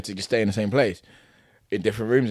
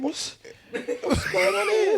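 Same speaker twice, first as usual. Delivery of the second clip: baffled thought; much slower than usual. Retold or imitated.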